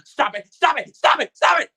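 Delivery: high, loud desperate stop it; inner pleading. Retold or imitated. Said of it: "I'm thinking to myself".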